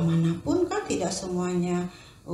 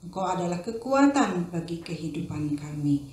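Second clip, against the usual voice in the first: prayer; 2 semitones lower than usual. Acted. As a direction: lead the children in a hushed prayer. Teacher prays before the story.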